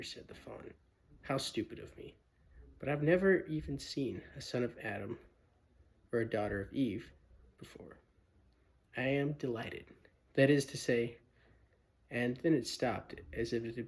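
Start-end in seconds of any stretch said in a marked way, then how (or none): 1.2-11.2 polite, nervous faun, quick at first; a timid faun asking carefully; shy faun. Acted. Fawn politely questions Lucy, lightly voiced nervous faun. Tumnus flustered speech.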